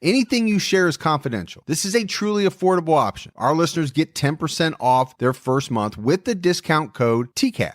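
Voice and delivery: upbeat sponsor read. Acted. Host pitching BetterHelp to listeners in an ad read. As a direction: sell it like a podcast ad.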